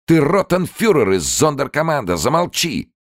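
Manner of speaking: high, loud furious shouting; a woman screaming at a soldier. Acted. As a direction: tear into him. Inga screaming at Somer.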